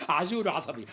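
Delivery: laughing. Acted. Tailor laughs at angry customer.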